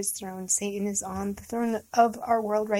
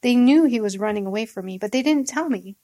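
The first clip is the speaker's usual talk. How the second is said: a louder, hurried command to the guards; angry order; 4 dB louder than usual. Acted. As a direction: bark it like a furious king to his guards. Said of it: "he ordered his bodyguards".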